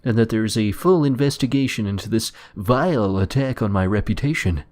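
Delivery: lightly voiced pompous principal. Principal's speech retold.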